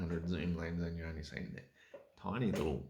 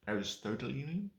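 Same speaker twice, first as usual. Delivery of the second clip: Aristotelian? asked, pitch rising at the end; Aristotelian? said as a puzzled question; Aristotelian? with a questioning rise; 5 semitones higher than usual. Shown as a demonstration.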